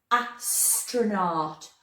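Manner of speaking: Astronaut drawn out very slowly, each part stretched; slow sounding out. Shown as a demonstration. Teacher telling the children to listen: very slow Astronaut.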